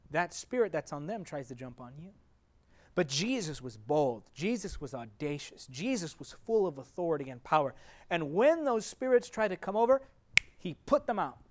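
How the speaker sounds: ordinary talk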